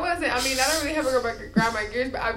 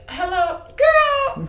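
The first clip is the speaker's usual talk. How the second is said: sing-song greeting; 7 dB louder, much slower than usual. Retold or imitated. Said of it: "I'm like".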